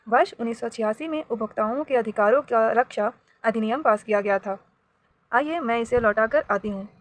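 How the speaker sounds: steady storybook reading voice, lightly acting the characters; story narration. A narrator's reading. Teacher reading a story to her class five pupils, storybook narration.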